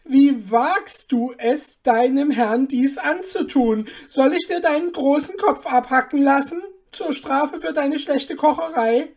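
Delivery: a lord exploding at his servant; enraged royal bellow; furious duke shouting. Acted.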